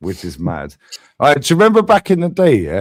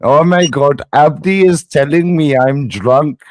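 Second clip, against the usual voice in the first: slow, drawn-out sarcastic self-quote; mock dismay; slower than usual. Streamer quoting himself on his own channel, mock dismay. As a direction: drag each phrase out in mock shock. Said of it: "sat on my own channel going".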